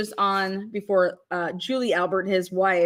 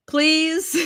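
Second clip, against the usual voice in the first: a laughing, higher "please"; mock judge; 8 semitones higher than usual. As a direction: plead "please" in a high mocking judge voice. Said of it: "ask that question a different way".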